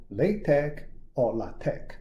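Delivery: "LaTeX or LaTeX" as LAY-tek, then lah-TEK; both pronunciations. Shown as a demonstration. Teacher recaps two ways to say it, "LaTeX" as lay-tek or lah-tek. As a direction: say "LaTeX" first with a long A, then with a short one. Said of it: "Two different ways to pronounce it".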